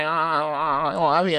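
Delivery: a hint of gushing, clingy girl; imitated lovey girls. Girls all over a boy, mock lovey-dovey.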